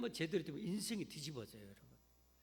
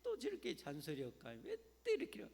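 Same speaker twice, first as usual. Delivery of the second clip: annoyed grumbling; 4 semitones higher than usual. Retold or imitated. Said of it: "성도들은 어떻게 해요?".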